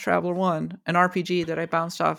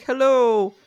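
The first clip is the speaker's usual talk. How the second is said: higher, louder, slow pleading game voice; needy NPC; 6 semitones higher, 4 dB louder, slower than usual. Retold or imitated. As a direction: drag out the plea like a quest giver. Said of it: "where they're like".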